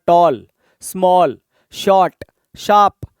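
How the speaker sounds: टॉल, स्मॉल, शॉर्ट, शार्प each said in one unbroken beat; no internal pause. Shown as a demonstration. Teacher demonstrating single-syllable words, टॉल to शार्प each said straight through. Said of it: "directly बोला जाता है".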